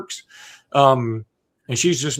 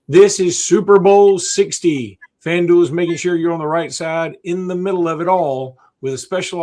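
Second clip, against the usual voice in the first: ad read. Acted. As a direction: sell it like a radio spot. Host reads FanDuel ad.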